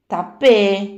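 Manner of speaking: mild motherly reproach; a light stern rebuke; scolding. Acted. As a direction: chide her at once. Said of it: "మందలించింది Radhamma".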